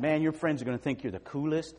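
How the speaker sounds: high, loud salesman pitch; slick used car salesman. Acted. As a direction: sell it hard and fast. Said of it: "I sound like a used car salesman".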